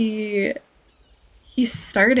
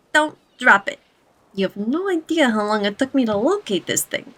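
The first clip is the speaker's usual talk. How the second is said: lightly voiced goblin boss; a hint of wheeling-dealing goblin. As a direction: hand out a job as a goblin gangster. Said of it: "my best goblin voice".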